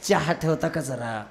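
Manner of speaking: slow, meek polite asking; meek polite request. Shown as a demonstration. City man asking wife meekly, slow polite request. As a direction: plead softly for tea.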